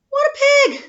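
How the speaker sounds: loud high outraged cry; sudden loud outburst; indignant shout. Acted. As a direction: blurt it out, scandalised and loud. Wolf outraged at the pig.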